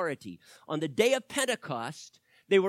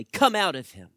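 stern command; 7 dB louder than usual. Acted. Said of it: "Jesus said sternly".

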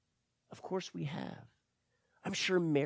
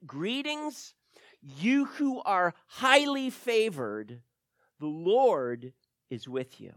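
angel's greeting; 3 semitones higher, 4 dB louder, slower than usual. Acted. Angel's greeting read dramatically.

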